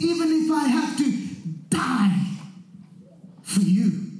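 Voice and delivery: insistent pledge, falling in pitch; emphatic insistence. Acted. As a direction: weigh down "die for you".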